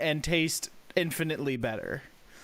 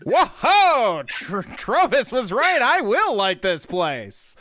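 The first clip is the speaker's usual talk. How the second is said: amazed; 3 semitones higher, 4 dB louder, much slower than usual. Acted. Yeety amazed entering the bar.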